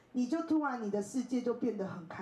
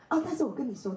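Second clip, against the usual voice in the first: mock-excited teacher, a bit higher; 4 semitones higher, 3 dB louder, faster than usual. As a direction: play the teacher eager to share news. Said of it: "他很兴奋". (模仿老师兴奋地说)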